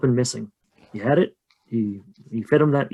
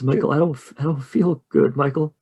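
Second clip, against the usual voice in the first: higher, faltering plea to a brother; mildly tearful distressed voice; sobbing, lightly acted; 4 semitones higher than usual. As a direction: plead as if close to tears. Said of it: "start sobbing".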